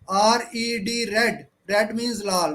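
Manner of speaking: unhurried classroom model reading with small breaks; measured, with pauses. Shown as a demonstration. Teacher showing pupils how to read, measured with pauses. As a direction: spell it out letter by letter. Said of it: "ऐसे रुक रुक कर पढ़िए".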